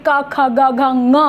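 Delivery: क, ख, ग, घ, ङ one by one, all from the throat; teacher modelling क, ख, ग, घ, ङ from the throat; pronunciation demo. Shown as a demonstration. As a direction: recite क, ख, ग, घ, ङ as separate sounds, ending on nasal ng. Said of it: "एक सा उच्चारण स्थान है".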